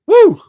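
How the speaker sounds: high, loud woo of delight; excited whoop. Real, not acted. Commentator whooping at a great game. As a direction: let out a thrilled whoop.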